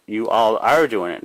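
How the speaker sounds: you all ARE, with emphasis; stress on ARE. Real, not acted. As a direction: hit the word ARE firmly. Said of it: "not can do it".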